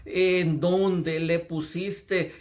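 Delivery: very slow, troubled question; barely audible grief. Acted. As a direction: drag the words out as if choked with sorrow. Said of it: "casi no se le pudo entender las palabras".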